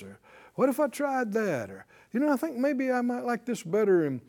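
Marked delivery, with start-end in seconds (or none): 0.5-1.7 mock wistful pondering, pitched up; tempted musing. Voices someone wondering about leaving. 2.1-4.0 mock wistful pondering, pitched up; tempted musing. Voices someone wondering about leaving.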